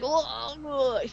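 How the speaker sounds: drawn-out mock groan; hammed-up wordless moan; imitated monster groan. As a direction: groan like a messed-up creature. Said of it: "He's like".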